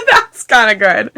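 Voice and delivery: laughing. Real, not acted. Still laughing.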